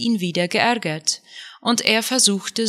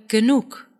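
a mild roar more pained than angry; 4 semitones higher than usual. Acted. Husband silencing his nagging wife, pained mild shout. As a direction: cut her off with a hurt outburst. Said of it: "brüllte Juda".

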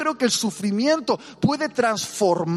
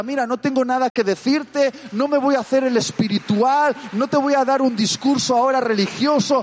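louder, earnest plea to stay beside a sufferer; sincere comforting; 5 semitones higher, 4 dB louder than usual. Acted. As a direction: say it like a friend who will cry with you. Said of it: "Y decirle".

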